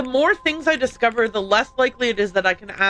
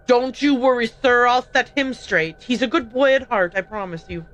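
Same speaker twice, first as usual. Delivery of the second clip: put-on Irish accent; 3 dB louder than usual. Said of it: "I do the accent for her".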